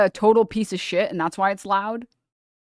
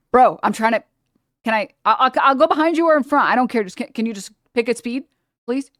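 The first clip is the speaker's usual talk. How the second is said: exasperated pleading; 4 semitones higher, 5 dB louder, faster than usual. Retold or imitated. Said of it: "I'm like".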